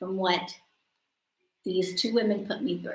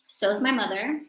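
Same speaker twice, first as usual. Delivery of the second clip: ordinary talk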